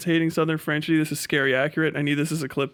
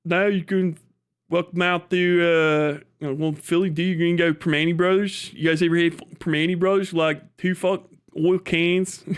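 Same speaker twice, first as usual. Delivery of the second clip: Philly accent; 3 semitones higher than usual. Shown as a demonstration. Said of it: "I heard too many accents".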